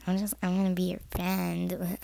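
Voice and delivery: low, grudging mock offer of friendship; insincere friend. Showing how not to befriend someone, mock insincere. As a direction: imitate someone who is not being nice. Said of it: "Don't be the f-, person that's like".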